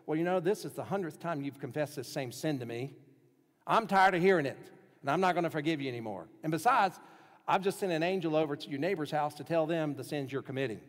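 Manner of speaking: a fed-up God building to a loud outburst; rising from weary complaint to loud irritated scolding; imagined angry God. Pretend. Preacher voicing an imagined God scolding a repeat confessor, loud and exasperated. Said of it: "What if you heard a voice".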